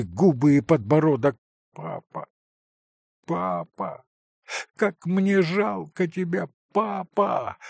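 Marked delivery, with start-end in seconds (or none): 1.7-2.3 softer, voiceless grieving whisper; whispered moan. Acted. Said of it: "горько простонал Илюша". 3.2-7.6 bitter moan. Acted. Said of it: "горько простонал Илюша".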